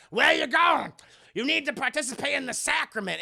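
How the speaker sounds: hammed-up menacing shout; mock villain call. Villain calling after fleeing Brianna, loud mock taunt.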